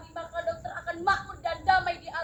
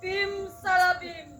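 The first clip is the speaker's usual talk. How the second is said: put-on kids party magician. Mock magic oath ritual.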